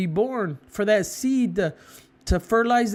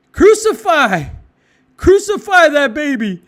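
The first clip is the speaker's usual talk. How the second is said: sudden much louder furious cry; mock mad crowd; 3 semitones higher, 8 dB louder than usual. Preacher imitating mad crowd about the baby, angry shout. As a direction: spit it out like a raging mob. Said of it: "you get more mad".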